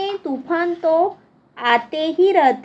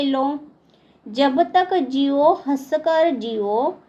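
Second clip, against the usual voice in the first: measured classroom verse reading; poem recitation. Acted. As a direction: recite it line by line, pausing after each. Reads the second stanza aloud. (कविता पाठ)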